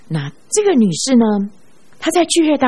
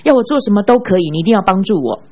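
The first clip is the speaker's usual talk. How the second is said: mock desperate shout; 5 semitones higher than usual. A woman calls after the departing pastor in a hammed-up desperate shout. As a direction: shout the promise to forgive as if begging. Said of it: "大声喊着说".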